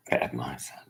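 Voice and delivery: quiet repeat under the breath; muttered low. Real, not acted. Repeats the phrase much softer.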